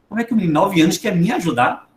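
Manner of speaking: quick incredulous question; mildly affronted by the very idea; mock disbelief. Father doubting nine-year-old can help him, mock disbelief.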